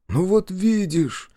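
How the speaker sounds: high, drawn-out relief; slow, lifted, relieved exclamation. A narrator's reading. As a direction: let it out with relief. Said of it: "сказал спящий с облегчением".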